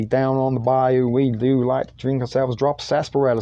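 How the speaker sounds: lightly put-on Southern accent; a hint of a Southerner talking. Shown as a demonstration. Recalling an old Southerner act, light southern accent. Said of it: "when I speak like Southerner".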